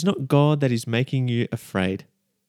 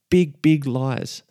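slow, heavy stress on big; slow emphasis; much slower than usual. Real, not acted. Preacher warning the congregation, slow emphatic stress. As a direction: lean on each word slowly.

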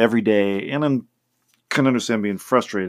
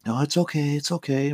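higher, slightly softer comforting voice; imitated reassurance; 5 semitones higher, 4 dB quieter than usual. Comforting a crying first grader, imitated reassurance. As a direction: gently soothe him, as retold.

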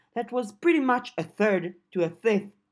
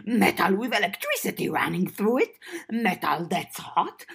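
goblin voice; 3 semitones higher, 3 dB louder than usual. Acted. Goblin Cherry voiced in story.

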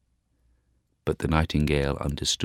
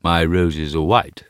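louder stately tree voice; a proud old tree; rose tree voice; 6 dB louder than usual. Acted. White rose tree answers.

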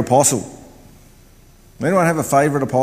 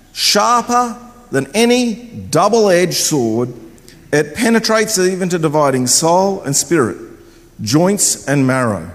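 measured preacher's reading with spaced-out key words; scripture reading. Real, not acted. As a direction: proclaim the verse with weight, phrase by phrase. Reads Bible verse aloud.

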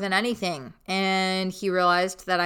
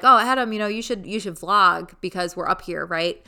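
casual innocent suggestion; 4 dB louder than usual. Retold or imitated. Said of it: "it was so funny 'cause I was like".

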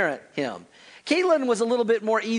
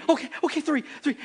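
put-on resigned kid; 9 semitones higher, faster than usual.

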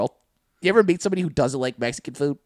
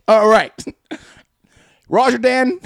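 hammed-up Klan leader; 8 semitones higher, 7 dB louder, slower than usual. Voicing Klansmen at meeting.

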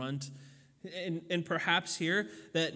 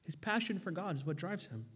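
repeated softly, much quieter; soft echo; 7 dB quieter than usual. Acted. Preacher repeating his point to the congregation, quietly. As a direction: let it fall to a hush.

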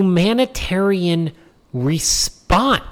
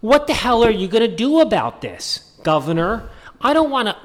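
mock Obama voice; 4 semitones higher than usual. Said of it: "He's got Barack Obama and Michelle Obama going".

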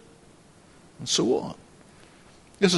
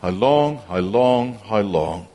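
fading distressed plea; 6 semitones lower than usual. Acted. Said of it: "our hearts were left crying out in distress".

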